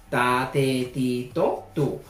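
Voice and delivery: "ta, te, ti, to, tu" with a simple unaspirated t, like Spanish; plain Spanish-style t in "ta, te, ti, to, tu"; plain t syllables. Shown as a demonstration. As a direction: spell out "ta, te, ti, to, tu" slowly. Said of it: "es como el castellano".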